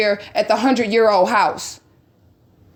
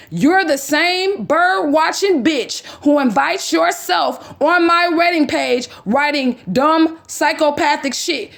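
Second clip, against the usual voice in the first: reading her message; 5 semitones higher, slower than usual. Retold or imitated. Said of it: "Okay, this is her".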